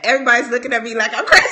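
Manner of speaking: quick, laughing aside. Real, not acted. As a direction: rush it out through a laugh.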